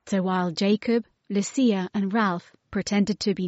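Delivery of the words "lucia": plain reading voice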